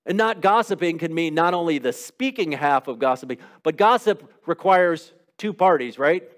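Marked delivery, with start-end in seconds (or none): none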